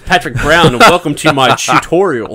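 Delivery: mock video-tutorial host. Friend imitating Pat introducing his tutorials, tutorial voice. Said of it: "Pat gets his, uh, tutorial voice".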